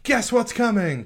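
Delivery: high, slowed, eager teaser; a high, drawn-out eager question; excited announcement. Shown as a demonstration. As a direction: tease it like a church notice. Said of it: "read it with that excitement".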